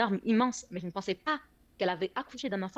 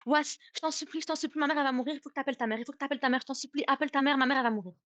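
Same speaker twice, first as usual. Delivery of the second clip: put-on high, pleading cries of a scared boy; retold panicked shouting; 5 semitones higher, faster than usual. Cousin begging on the phone for help, high panicked pleading. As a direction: beg frantically, voice pitched high. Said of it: "il me crie".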